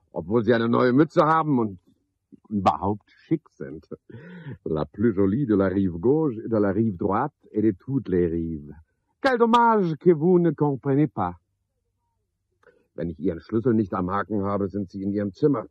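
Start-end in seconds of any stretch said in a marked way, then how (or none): 4.6-11.4 woo her lightly in French like a boulevard charmer; mock French gallant. Porter flirting in French with the lodger Rosi, half mocking. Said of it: "Warum spreche ich dann Französisch zu Ihnen".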